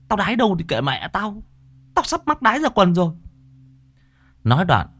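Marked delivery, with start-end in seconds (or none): 0.1-3.1 high, defiant yelp of a retort. Acted. Hỷ brushes off his friend's warning, high defiant retort. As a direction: fling it back, pitched way up. Boys quarrel in the garden.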